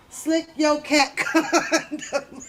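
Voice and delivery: slow, breaking into laughter; laughing. Real, not acted. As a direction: laugh through the punchline. Joking, laughing mid-word.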